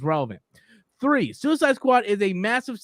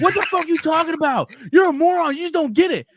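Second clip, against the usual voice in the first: raised, louder angry troll; mock pissed off; 7 semitones higher, 5 dB louder than usual. Imitating a commenter answering a silly reply, pissed off. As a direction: imitate a commenter losing patience. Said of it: "they will get so pissed off".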